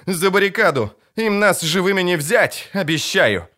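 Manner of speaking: a lightly voiced captain rallying her men; battle rally. A narrator's reading. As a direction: fire up the squad before the fight. Captain rallies troops to battle.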